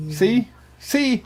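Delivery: a high, breathy whispered see; playful whispered aside. Real, not acted. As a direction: whisper it slyly to the room. Teasing whisper at the guest.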